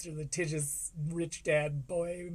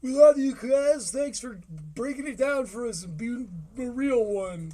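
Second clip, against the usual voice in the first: mock adoring fans; 3 semitones higher, 6 dB louder than usual. Host mocks adoring fans.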